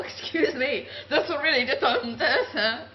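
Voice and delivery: breaking up with real laughter; laughing. Real, not acted. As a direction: lose it to laughter mid-sentence. Laughing fit mid-thanks.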